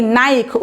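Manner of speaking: নাইক said briefly with a falling tune, as "naik"; pronunciation demo. Shown as a demonstration. Teacher repeating the correct sound for the class, falling tune. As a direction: give নাইক with a clear "ai" diphthong. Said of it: "উচ্চারণটা হচ্ছে নাইক".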